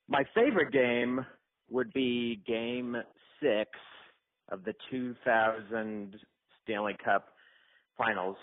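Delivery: slow, deliberate, every word spelled out; slow careful take. Shown as a demonstration. Retrying his audition voicemail, slow and careful. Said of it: "this is an important audition".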